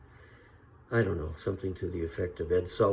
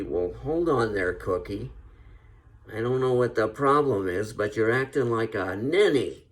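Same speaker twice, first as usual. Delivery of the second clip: John Wayne; 3 semitones higher, 5 dB louder than usual. Retold or imitated. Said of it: "John Wayne, of course, would be".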